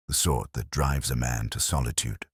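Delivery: the organist dodging the question, vague and soft. Acted. Organist evading the detective's question, said vaguely and low. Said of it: "he said vaguely".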